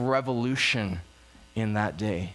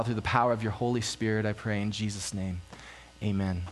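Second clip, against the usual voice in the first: earnest prayer, settling lower toward the amen; 5 semitones lower than usual. Real, not acted. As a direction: lead the congregation in heartfelt prayer. Leads the congregation in prayer.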